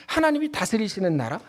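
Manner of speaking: normal talking voice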